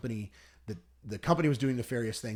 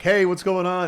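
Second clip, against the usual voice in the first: loud, higher-pitched mock hello; imitating a brash, upbeat greeting; retold breezy greeting; 8 semitones higher, 10 dB louder than usual. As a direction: burst in with a cheery hey. Retold breezy greeting on live show.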